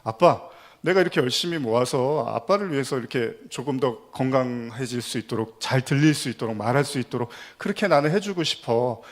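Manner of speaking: retold frustrated plea with mild heat; mildly angry daughter. Daughter pleads with deaf father to accept surgery, mildly angry. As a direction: voice a daughter's exasperated insistence, lightly. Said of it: "갑자기 막 화를 냅니다".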